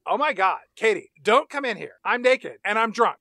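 panicked mock shout. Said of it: "voice replication abilities to sound like Gemma".

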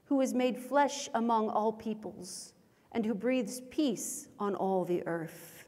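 solemn measured prayer voice; liturgical prayer. Acted. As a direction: lead the congregation in prayer.

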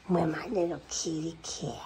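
airy whispered pet talk; soft whisper. Real, not acted. Owner whispers fondly to her cat, soft whisper. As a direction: murmur it close to the kitty.

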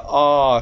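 "ah" as the open vowel in call; "ah" as a long open vowel. Shown as a demonstration. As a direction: draw out "ah" as in call. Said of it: "That's a long A".

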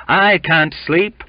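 high, loud and slow; fervent cry. A narrator's reading. Cook declares he cannot rest, loud and slow. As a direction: cry it out with zeal.

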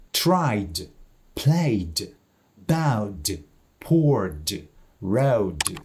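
tried, played, bowed, poured, rowed with clear voiced final D; voiced ending. Shown as a demonstration. Teacher repeats examples for learners, voiced D ending on tried, played, bowed, poured, rowed. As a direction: separate model words, each closing on a released D in tried, played, bowed, poured, rowed. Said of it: "звучить дзвінко, бо нічого його не стримує".

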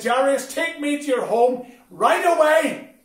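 urgent command. Retold or imitated. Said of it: "Jesus saw the urgency".

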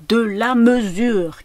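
loud, high, drawn-out command; crying out. A narrator's reading. Piano teacher to a child at play, crying out. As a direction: call out a slow, emphatic order. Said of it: "cria la dame".

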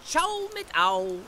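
slow, high, teasing farewell; playful goodbye. Acted. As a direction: sing it out as a cheeky joke.

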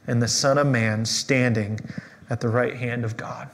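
measured, solemn Bible reading; scripture reading. Acted. Pastor reading Acts to the church, solemn and measured. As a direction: read the passage to the congregation with weight.

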